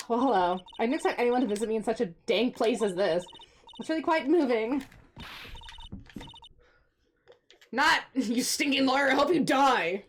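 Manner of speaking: reading her lines with a touch of spite; a mild sneering witness voice; lightly voiced Miss May.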